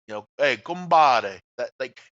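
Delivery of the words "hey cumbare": "cumbare" louder and slow, as a southern Italian greeting; Sicilian "cumbare". Shown as a demonstration. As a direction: draw out "cumbare" like hailing a Sicilian pal. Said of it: "in Sicily and Southern Italy".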